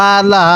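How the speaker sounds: "আলা" starting with a squeeze in the throat; pressed ain. Shown as a demonstration. Teacher teaches the ain, throat-pressed start to "আলা". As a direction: press the throat on the first vowel of "আলা", lengthen "লা". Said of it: "গলার মধ্যে চাপ দিব".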